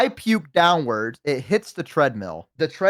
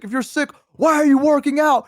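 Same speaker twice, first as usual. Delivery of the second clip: high, indignant mock yell; retold yelling; 11 semitones higher, 4 dB louder than usual. Gym manager scolding a sick customer, retold yelling. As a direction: act out the manager telling you off. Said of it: "he's yelling at me".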